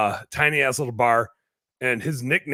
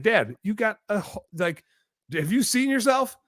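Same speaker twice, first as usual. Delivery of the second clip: high-pitched retold disbelief; incredulous pleading; 9 semitones higher than usual. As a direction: re-enact a son aghast at his dad. Retold pleading with stubborn dad.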